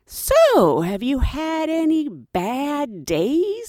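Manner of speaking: high, slow knowing question; sly supervisor teasing; pointed tease. Retold or imitated. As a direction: savour the pointed jab. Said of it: "says to her".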